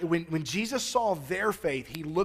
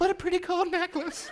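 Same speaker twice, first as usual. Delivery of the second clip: eerie, very high, badly done girlish voice; 13 semitones higher than usual. Acting out admiring a gold necklace, in a creepy girl impression. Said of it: "That was like the creepiest girl".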